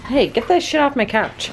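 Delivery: sharp high scold at the dog. Real, not acted. Dog on couch.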